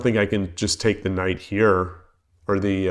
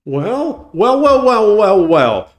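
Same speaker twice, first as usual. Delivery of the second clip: mock villain; 9 semitones higher, slower than usual.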